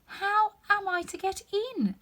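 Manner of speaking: put-on frustrated girl raising her voice. A narrator's reading. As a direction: ask again, pushing harder. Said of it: "in a louder tone".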